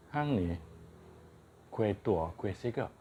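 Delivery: Kedah dialect teasing line; kedah malay accent. Shown as a demonstration. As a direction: say it like a northern Malay local.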